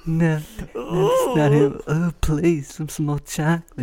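high, eerie mock killer; creepy killer voice. Vince as a Chainsaw Massacre killer, high and eerie. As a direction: creep on the chocolate like a horror movie psycho. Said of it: "you just sound like Texas Chainsaw".

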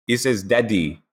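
imitated French accent; lightly put-on French accent. Quoting a driver reading his bracelet, French accent. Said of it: "I love your Esti accent".

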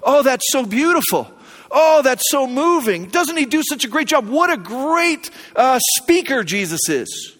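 gushing, breathy-free admiration, drawn out; mock gushing listener. Churchgoer gushing over a great speaker, mock admiring. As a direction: play a shallow churchgoer swooning over the sermon. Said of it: "and go".

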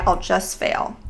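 breathy whisper of defeat. Acted. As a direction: let it die into a whisper. End of the belief list, unvoiced.

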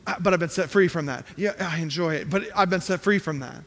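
lightly voiced sly believer; mock self-deception. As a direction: play the hypocrite lightly. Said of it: "you're like".

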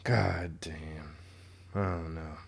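under-breath whisper. Real, not acted. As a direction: breathe it out in disbelief. Muttered after bad news.

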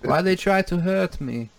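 mock wounded cry in an odd accent; Tommy Wiseau. Shown as a demonstration. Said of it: "Kinda comes off as Tommy Wiseau".

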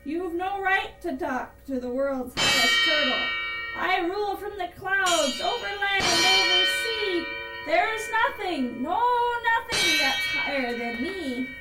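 loud, high, haughty tirade; imperious shouting. A narrator's reading. Yertle boasts he rules from the clouds, shouting. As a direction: lord it over the underling. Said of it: "while he was shouting".

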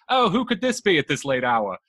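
hammed-up Victorian lady at the door; a hint of a startled maiden answering a late knock; prim Victorian lady. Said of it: "Exactly how she sounded".

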